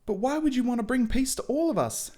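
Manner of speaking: put-on high, shocked boyish voice; aghast Harry. Harry, aghast, questions Snape in a high voice. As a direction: sound stunned like a young boy.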